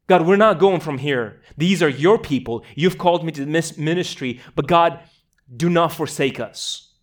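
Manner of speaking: loud, emphatic retold plea; insistent protest to God, retold with force; almost an outburst. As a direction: plead firmly, punching the key words. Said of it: "this sort of almost outburst".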